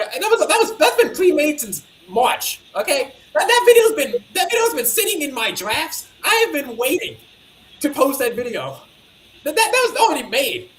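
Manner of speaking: laughing while explaining; can't stop laughing through it. Real, not acted.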